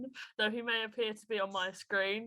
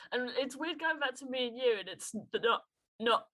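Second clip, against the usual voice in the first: chin shaking from cold; shivering, jaw trembling; jaw tremor. Real, not acted. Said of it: "my chin is shaking, it's cold".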